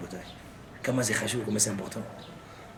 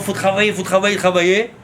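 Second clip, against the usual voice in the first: louder, insistent mock cry; imitated shouting; 3 semitones higher, 5 dB louder than usual. Preacher mimics the cry from outside about working, raised insistent voice. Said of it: "il crie dehors".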